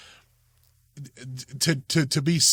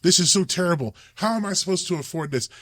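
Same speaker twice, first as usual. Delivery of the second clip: mock whining complaint; 5 semitones higher than usual. Mocking someone cursing God.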